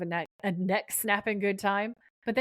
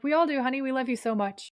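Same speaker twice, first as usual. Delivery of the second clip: higher, gushing mock-mom reassurance; lightly voiced suburban mom; 5 semitones higher than usual. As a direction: imitate an over-sweet suburban mom. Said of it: "She's suburban mom crazy".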